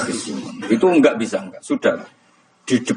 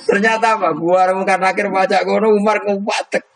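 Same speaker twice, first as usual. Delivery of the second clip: laughing through the telling; 11 semitones higher than usual. Real, not acted. Comic climax of grave story.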